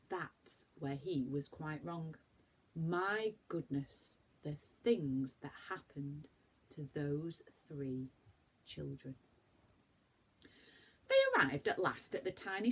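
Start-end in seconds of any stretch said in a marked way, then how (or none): 0.1-9.2 slow, softer, into a whisper; fading to a secret whisper; hushed dramatic aside. A narrator's reading. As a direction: lean in and hush for the mystery.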